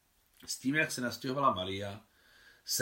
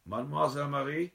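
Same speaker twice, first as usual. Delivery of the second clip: timid call; 5 semitones higher than usual. Acted. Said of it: "nesmělé zavolání".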